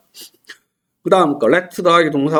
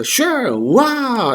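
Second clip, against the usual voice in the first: high drawn-out wow; enthusiastic wow; 9 semitones higher, much slower than usual. Shown as a demonstration. Accepting a dinner invitation with delight. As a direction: gush with delight. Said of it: "맞장구를 빵빵 쳐주면".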